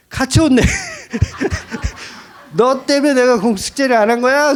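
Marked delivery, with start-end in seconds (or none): 2.6-4.5 mock scolding. Daughter scolds cat too.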